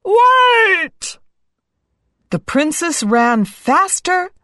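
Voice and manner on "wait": very high frog shout; high, shouted frog plea; frog's cry. A narrator's reading. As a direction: call out desperately after someone running away. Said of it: "cried the little frog".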